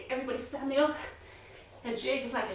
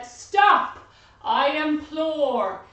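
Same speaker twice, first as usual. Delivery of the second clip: put-on pleading old lady; 3 semitones higher, 7 dB louder, much slower than usual. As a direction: implore them to stop. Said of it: "the little old lady said".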